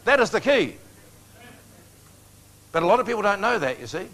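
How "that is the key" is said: "That is the key" higher and louder, each word stressed; emphatic repetition. Real, not acted. Preacher stressing his main point to congregation, emphatic "That is the key". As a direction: drive home "That is the key" with raised, forceful voice.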